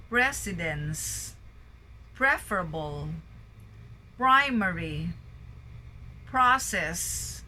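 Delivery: each word like "Pedestal" punched on its first syllable, then falling; measured list reading, "vibrant" with VI stressed. Shown as a demonstration. Teacher drilling sample words, first syllable stressed as in "plenary". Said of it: "stress in the first syllable".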